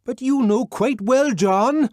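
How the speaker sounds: high, loud coaxing yell; coaxing shout through a door; persuasive shout. A narrator's reading. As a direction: persuade at the top of your voice. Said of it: "to sound persuasive at the top of one's voice".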